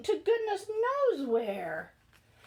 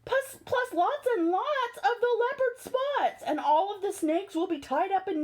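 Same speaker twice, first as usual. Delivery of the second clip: hippo voice; 4 semitones higher than usual. Acted.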